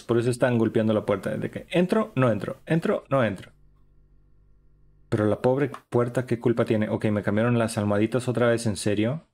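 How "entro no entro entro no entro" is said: mock indecisive visitor. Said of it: "estaban indecisos".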